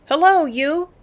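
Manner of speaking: high, loud, calling Hello down; loud holler. A narrator's reading. Girl on the stern hollering at the swimming native, high and loud. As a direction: holler it as loud as you can. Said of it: "I hollered as loud as I could".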